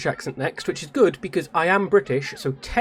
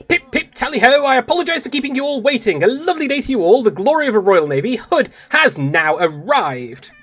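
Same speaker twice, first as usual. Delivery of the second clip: higher-pitched, grand British lady; another British accent; 8 semitones higher, 4 dB louder than usual. Acted. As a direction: make a stately, jolly British entrance. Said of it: "I need to do another British accent".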